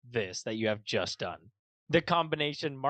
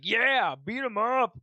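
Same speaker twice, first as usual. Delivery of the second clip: mock cheer; 7 semitones higher, 5 dB louder, slower than usual. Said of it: "The entire time we were like".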